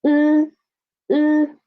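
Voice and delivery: teacher's u sound. Shown as a demonstration. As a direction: show e turning into u. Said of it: "sometimes it can be sounds like".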